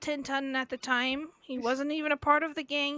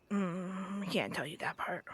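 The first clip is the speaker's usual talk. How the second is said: whispering; 7 semitones lower, 7 dB quieter, slower than usual. Real, not acted. Whispered secret.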